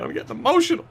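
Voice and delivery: playfully overcome, voice leaping high on emotional; hammed-up emotional tribute to a hero; mock choked up. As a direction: act a little choked up with pride. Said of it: "I'm getting choked up, man".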